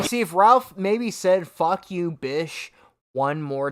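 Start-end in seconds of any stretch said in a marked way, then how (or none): 1.5-2.7 "bish" for bitch, dropped low; missing T. Retold or imitated. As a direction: quote it with "bish" ending on sh. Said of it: "pronunciate the T".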